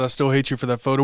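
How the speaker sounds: ordinary talk, nothing marked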